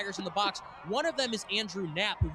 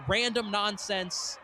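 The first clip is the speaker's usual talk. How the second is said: emphatic shout; much slower than usual. Real, not acted. Excited hype about rivalry.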